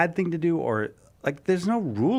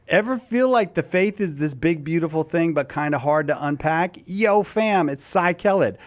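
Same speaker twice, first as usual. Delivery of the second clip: hyped Gen Z ad read; ironic zoomer; 3 semitones higher than usual. Acted. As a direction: sell it like a youth influencer. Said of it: "Cy promoing something in Gen Z slang".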